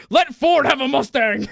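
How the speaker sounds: high, slow, laughing through the words; laughing quote. Retold or imitated. Player insisting his character gets a Mustang, slow laughing plea. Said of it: "He goes".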